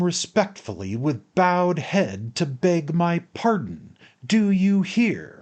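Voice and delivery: high, loud, insistent ultimatum; overbearing anger, voice pitched high; angry shout. A narrator's reading. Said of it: "I shouted to him".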